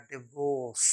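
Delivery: डिवोर्स said "di-VAWS"; short "di" opening in डिवोर्स; correct pronunciation. Shown as a demonstration. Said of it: "correct pronunciation होता है". (डिवोर्स में छोटा "डि")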